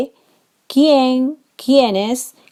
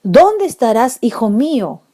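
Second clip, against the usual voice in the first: higher, louder longing cry; exclaimed; 4 semitones higher, 4 dB louder than usual. Shown as a demonstration. Teacher modelling an exclamative dónde, longing. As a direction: call out longing for a lost son. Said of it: "En exclamativo".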